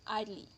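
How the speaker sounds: idly said as two syllables, EYE-dlee; two-syllable pronunciation. Shown as a demonstration. Teacher showing how idle loses a syllable, two-syllable idly. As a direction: say idly with no extra syllable after the d. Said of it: "Idly is pronounced".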